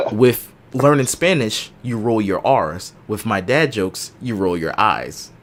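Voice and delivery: slow, spaced-out joke telling; deliberate punchline delivery. Real, not acted. Host telling co-host a dad joke, slow and deliberate. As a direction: lay out each half of the joke slowly.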